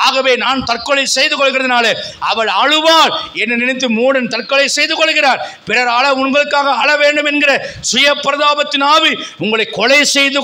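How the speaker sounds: driving, declaimed sermon delivery; fervent preaching. Real, not acted. Preacher urging congregation out of self-pity, fervent preaching. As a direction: preach it with ringing, sustained conviction.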